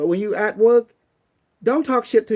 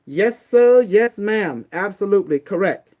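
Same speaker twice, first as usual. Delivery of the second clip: louder, eager yes sir yes ma'am; obedient reply; 2 semitones higher, 5 dB louder than usual. Shown as a demonstration. Answering dad and mom with a loud, eager yes sir. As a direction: snap to it like a good soldier. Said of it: "mom say".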